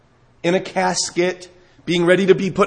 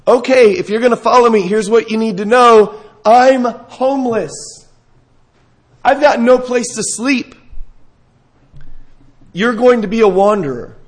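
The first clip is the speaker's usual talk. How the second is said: lightly acted blunt warning, louder and emphatic; blunt disheartening warning; 3 semitones higher, 4 dB louder than usual. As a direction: lay down the hard terms, mildly acting it out. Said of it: "say something so disheartening".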